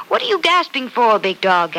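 a playful donkey asking the tired dog. Acted. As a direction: give the donkey a big, hearty voice. Voicing donkey in read story.

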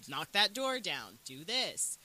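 emphatic imitated commands; giving orders. Villain directing his stupid minions, giving orders. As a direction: spell out orders to dim henchmen. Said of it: "he has to keep telling them".

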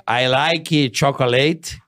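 slow "I like chocolate", each word drawn out; halting beginner English. Shown as a demonstration. Learner showing friends how he speaks English, slow and halting. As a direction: demonstrate laboured learner's English at half speed. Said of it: "Não, eu falo".

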